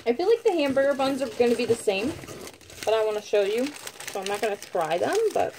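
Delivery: talking with mouth full; words around a mouthful of bread. Real, not acted. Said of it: "sorry, I'm talking with my mouth full".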